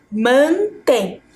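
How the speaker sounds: "mantém" in two slow, separated syllables; split into syllables. Shown as a demonstration. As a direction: say "mantém" with a break after "man". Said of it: "dividi-las em sílabas".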